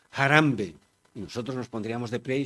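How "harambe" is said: calling out Harambe, louder, with a falling end; a neighbour shouting for help at a house fire; mock call for help. Speaker imitating a neighbour's cry for help at a fire, mock shout. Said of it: "estaría gritando".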